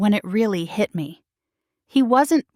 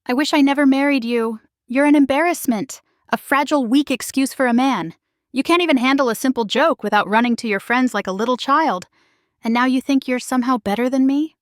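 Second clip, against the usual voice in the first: tearful rant; 4 semitones higher than usual. Acted.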